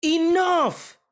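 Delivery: shout. Acted. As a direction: bark it to end the squabble. Stops the two arguing kids.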